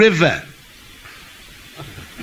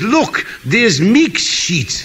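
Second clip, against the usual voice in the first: slow, laughing mock Mexican accent; much slower than usual. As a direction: drawl it out slowly in a joke accent. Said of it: "That's his friend Mick".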